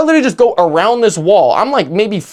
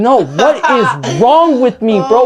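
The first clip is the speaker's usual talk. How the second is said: mock panic; 4 semitones higher, slower than usual. Panicking on the phone.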